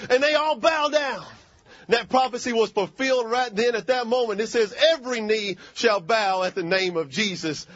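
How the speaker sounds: emphatic pulpit proclamation; preaching. Real, not acted. Preacher proclaiming a fulfilled prophecy to congregation, preaching. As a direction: proclaim it to the whole church.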